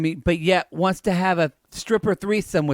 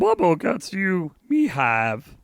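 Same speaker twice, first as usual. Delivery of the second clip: Yoda; slower than usual. Retold or imitated. Co-host trying the cousin's Yoda voice. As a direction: attempt a little Jedi master. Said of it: "Like Yoda".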